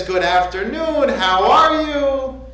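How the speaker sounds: lightly voiced sweet parrot, drawn out at the end; a hint of a sugary, polite pet, lifting on the question. Parrot greets a pet store customer, sweetly. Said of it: "The parrot's sweet".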